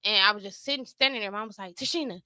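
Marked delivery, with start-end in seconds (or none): 1.8-2.2 retold yell. Mom hurrying her stunned daughter to dress, mock yell. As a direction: imitate mom ordering you to move. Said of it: "having to yell at me".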